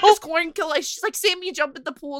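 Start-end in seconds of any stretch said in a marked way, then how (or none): 1.2-2.2 mock-panicked, imitated panicky voice. Telling a childhood story, the speaker quotes their mom, imitating a panicked mom. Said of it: "she was freaking out".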